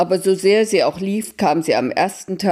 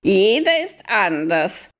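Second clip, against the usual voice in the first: high owl voice, howled; hooting owl; 4 semitones higher than usual. Acted. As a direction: hoot it like an owl. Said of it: "heulte die Eule". (hohe, heulende Eulenstimme)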